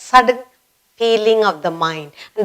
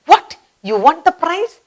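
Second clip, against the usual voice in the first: higher, amazed question; surprised; 8 semitones higher than usual. Shown as a demonstration. Teacher acting out winning the lottery. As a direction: gasp it out in disbelief. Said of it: "It's a surprise".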